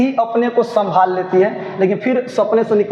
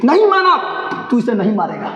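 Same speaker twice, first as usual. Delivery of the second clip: pleading cry. Acted. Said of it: "नहीं मानक, बिस्नी बोल रहे".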